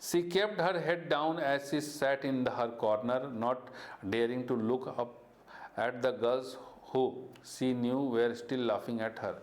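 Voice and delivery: slow, deliberate read-aloud; storybook narration for students; story reading. A narrator's reading. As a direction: read the textbook line slowly to the class. Teacher reads story text aloud.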